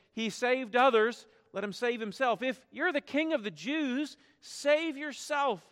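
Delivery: mocking crowd. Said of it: "the mockers and the criminals would cry out".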